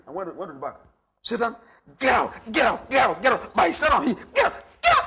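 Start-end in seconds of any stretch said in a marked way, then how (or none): 1.2-5.0 shouted rebuke. Retold or imitated.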